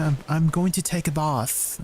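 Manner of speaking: tentative mock British accent, long ah in bath; Queen's English. Streamer trying out Northern English for chat, mock British accent. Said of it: "Is Northern like the Queen's English?".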